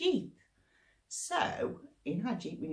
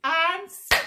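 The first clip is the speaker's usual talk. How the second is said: sudden loud high snap; 9 semitones higher, 10 dB louder than usual. Acted. Crocodile snapping at a monkey, loud burst. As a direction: bite the word off suddenly.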